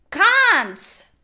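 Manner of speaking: high, loud furious insult; angry shout. Real, not acted. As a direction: hurl the word at them.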